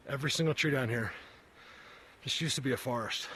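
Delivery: breathless while hiking; winded, talking between breaths. Real, not acted. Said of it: "Sorry, I'm so out of breath".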